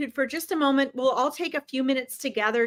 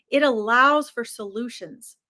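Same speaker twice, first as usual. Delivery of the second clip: whispered, breathy and close; right in your ear. Shown as a demonstration. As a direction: lean in and whisper it. Repeated line, second whispered.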